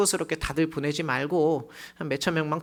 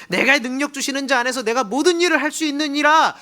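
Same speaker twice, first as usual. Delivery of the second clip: bold scripture quote; 8 semitones higher, 7 dB louder than usual. Acted. Preacher quotes scripture boldly.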